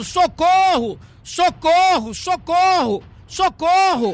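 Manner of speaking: mock high-pitched yell.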